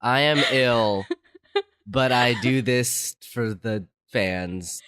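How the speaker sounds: slow hoarse voice from a cold; sick voice. Real, not acted. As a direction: push through a sick throat. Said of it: "of my sick voice".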